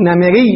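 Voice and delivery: نمري with "i" in both last syllables; two kasras in succession. Shown as a demonstration. Teacher shows the form to avoid, نمري said slowly as "namiri". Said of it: "الميم مكسورة وراء مكسورة".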